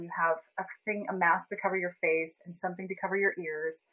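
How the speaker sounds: usual speaking voice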